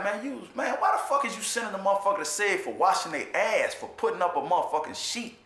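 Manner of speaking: retold angry protest. Recalling yelling at the lieutenant, a heated high protest.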